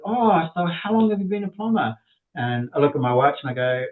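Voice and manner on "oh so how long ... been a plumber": higher-pitched chatty customer; curious lady customer. Retold or imitated. Lady customer asking the new plumber, imitated curious voice. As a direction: imitate her in a higher, lilting voice. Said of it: "she says to me, she goes".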